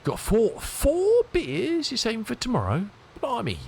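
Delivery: high, loud amazed cry; shocked delight, pitch way up; surprised. Real, not acted. Spots beers on stream chat.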